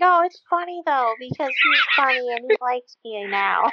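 high, giggling wife impression; the wife gushing about her husband while laughing; laughing mock wife. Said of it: "And she's like".

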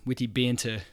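light imitation of a New Zealand accent. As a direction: say "witty banter" with dropped r, mock New Zealand style. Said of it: "They have New Zealand accents".

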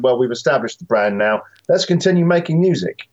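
imitating a German label boss; German accent. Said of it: "my best imaginary German accent".

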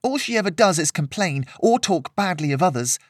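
high-pitched indignant rant; temper boiling over. A narrator's reading. Girl ranting about uninvited guest, boiling temper. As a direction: pile up the complaints, heated and high. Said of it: "could feel her temper starting to boil over".

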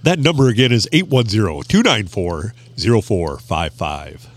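measured hotline announcer read, slowed down; mock announcer voice. Co-host repeats the call-in number, playful announcer voice. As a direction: read the number slowly, dropping low on the end. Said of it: "That was my best announcer voice".

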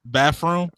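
bathroom echoed as "baff-room?". Retold or imitated. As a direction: say bathroom with an F, questioning. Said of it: "Bathroom with an F".

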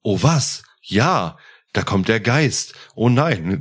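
stiff, wooden line reading with misplaced stresses; clumsy amateur emphasis. Shown as a demonstration. Podcaster mocks his own radio-play acting, stiff and wooden. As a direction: read it like an untrained amateur who puts stress in the wrong places. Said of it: "ich spreche leider unglaublich beschissen. Gerade bei den Betonungen".

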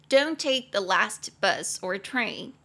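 slow, clear teaching read; slow, careful English model line. Shown as a demonstration. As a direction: spell it out slowly for learners.

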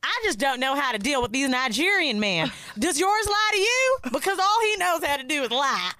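high, loud complaining wife imitation; mock Angela complaint. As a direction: whine to the braider like Angela. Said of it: "And she's like".

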